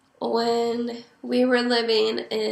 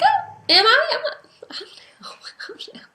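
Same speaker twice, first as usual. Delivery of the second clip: giggly coy denial. Retold or imitated. Mom coyly dodging daughter's question.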